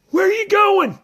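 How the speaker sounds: very high, worried squeaky voice; a nervous pup whispering from the door; timid little dog. Acted. Drover's high character voice.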